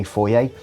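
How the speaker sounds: foyer as foy-ay; British foyer, rhyming its end with day; British pronunciation. Shown as a demonstration. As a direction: give foyer its French-style 'ay' ending. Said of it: "brought up in the U K to say".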